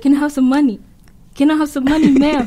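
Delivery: mildly pushy retold demand; increasingly aggressive demand. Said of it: "He's just getting increasingly aggressive".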